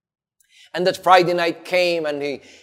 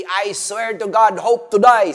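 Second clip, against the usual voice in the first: cursing oath; 4 semitones higher than usual. Acted. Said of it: "he even cursed at himself".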